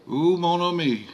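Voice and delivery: high, loud gasp of dismay; shocked ooh. A narrator's reading. Philomene shocked at horrific scene.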